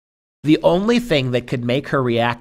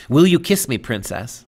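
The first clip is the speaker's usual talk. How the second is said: feeble plea; 4 dB louder than usual. Acted. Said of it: "said he, feebly".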